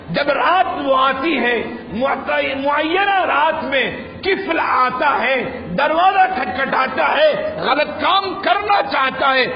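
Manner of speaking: fervent preacher narrating a moral story; preaching. Acted. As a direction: carry the mosque audience through the tale. Preacher tells the Kifl story.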